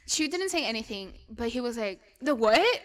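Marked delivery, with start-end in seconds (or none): 2.2-2.8 a mild mocking echo of her accent; mocking customer. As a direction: customer taunting the cashier, lightly voiced mocking question. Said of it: "Like, trying to mock me".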